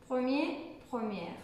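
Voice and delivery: Premier then première, the second ending in an open è sound; careful model pronunciation. Shown as a demonstration. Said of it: "masculin ou première féminin".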